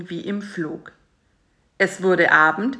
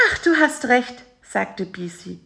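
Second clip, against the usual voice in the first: high fly voice; 6 semitones higher than usual. A narrator's reading. Bisi voice.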